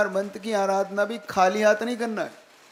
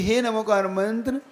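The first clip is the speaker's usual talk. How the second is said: devotional prayer; 2 semitones lower than usual. Shown as a demonstration. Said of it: "हम उसे मांगलिक मान लें और ये कहें".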